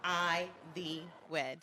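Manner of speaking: saying wedding vows. Shown as a demonstration. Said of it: "you will say".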